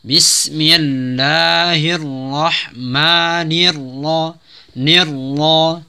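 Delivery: very slow melodic recitation of Bismillahirrahmanirrahim; Quran recitation. Shown as a demonstration. Teacher models full recitation, slow melodic chant. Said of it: "recitation demo".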